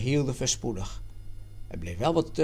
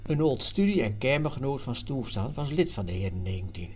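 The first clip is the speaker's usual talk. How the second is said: ordinary delivery, nothing marked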